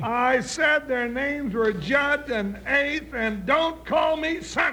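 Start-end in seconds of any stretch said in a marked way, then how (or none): 3.1-4.7 annoyed snap. Acted. Deputy annoyed at Grandpa.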